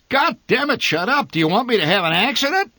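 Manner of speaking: angry driver roaring at his wife; furious bellow. Acted. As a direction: bellow at her to shut up. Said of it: "My father bellowed".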